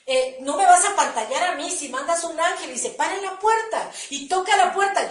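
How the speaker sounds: mock yell at God in prayer; retold shout. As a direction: cry out a challenge to heaven, part shouted. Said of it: "es que yo le gritaba".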